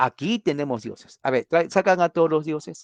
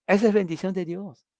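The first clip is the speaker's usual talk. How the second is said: emphatic declaration; 6 semitones higher than usual. Real, not acted. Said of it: "Esa es, esa es bendición de Dios".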